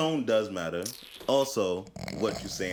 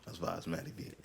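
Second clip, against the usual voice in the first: whispered hype of the show name; a soft unvoiced whisper; 3 semitones lower, 11 dB quieter than usual. Real, not acted. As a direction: breathe it like a secret.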